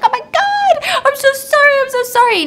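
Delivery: high-pitched frantic apology; acted freak-out, voice shooting up; panicked. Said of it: "she's panicked. She's freaking out".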